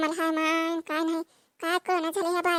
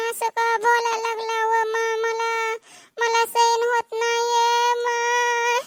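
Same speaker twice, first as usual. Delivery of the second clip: fake crying; 4 semitones higher, slower than usual. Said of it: "रडून जिरवा लागली".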